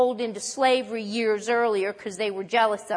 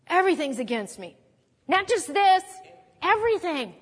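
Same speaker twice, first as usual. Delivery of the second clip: self-pitying complaint; 6 semitones higher than usual. Retold or imitated. Preacher voicing Jacob's self-pity, rising whine. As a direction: build from complaint to a pitched-up wail. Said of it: "Then he says".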